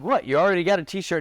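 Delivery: high-pitched incredulous comeback, retold; indignant disbelief. Host retells answering a heckler at the giveaway, incredulous.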